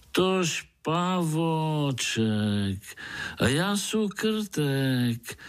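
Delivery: a cheerful mole bragging slowly; jolly mole. Acted. Mole voice in dialect. (veselý krtek, pomalu a vysoko)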